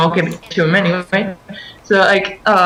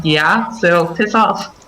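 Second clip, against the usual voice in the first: dismissive; 4 semitones lower, much slower than usual. Retold or imitated. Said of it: "I wanted so bad to say".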